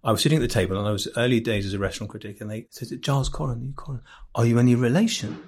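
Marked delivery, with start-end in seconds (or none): 3.0-5.4 lightly imitated old Jewish couple from Islington, Jewish London accent; a hint of an elderly Jewish London accent, asking gently; old Jewish London accent, quietly quoting the couple in the chip shop. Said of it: "sorry for doing the accents".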